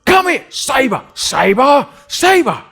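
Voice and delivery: high, strained calls to a disobedient dog; dog owner calling Sabre, high and loud. Retold or imitated. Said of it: "Sabre's owner would always be like".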